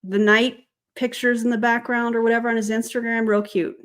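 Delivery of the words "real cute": dry sarcasm; understated sarcastic praise. Real, not acted. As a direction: say it as an insincere compliment. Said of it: "That's sarcasm".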